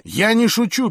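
loud, high cut-in; sharp interruption. A narrator's reading. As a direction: break in forcefully to insist. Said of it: "перебил его Рики". (резко перебивая)

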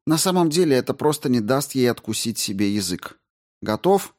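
high, brisk woman astrobiologist; Рао объясняет. Acted. Narrator voices Rao explaining. (высоким голосом, деловито и встревоженно)

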